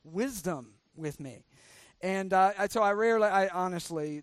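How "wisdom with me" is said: mock grateful, sarcastic plea; sarcastic mock pleading. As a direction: fake humble thanks, dripping sarcasm. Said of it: "that's sarcastic".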